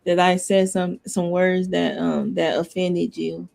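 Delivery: low, monotone apology that sounds insincere; almost sarcastically even-toned sorry; one-tone apology. Shown as a demonstration. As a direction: apologize on one note, with halting ums. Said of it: "sounds insincere because you're one tone".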